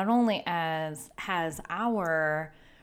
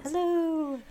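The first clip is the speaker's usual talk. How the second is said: cheery hello; 12 semitones higher, 4 dB louder than usual. Real, not acted. Cheery greeting to listeners.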